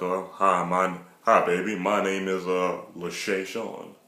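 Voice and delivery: smooth-talk like a ladies' man; lightly voiced ladies' man; put-on lover voice. Shown as a demonstration. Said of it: "think of a black voice".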